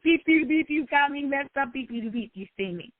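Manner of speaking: mock-bleep the curses, then let the anger sink away; angry outburst. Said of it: "it was outward seeping out like".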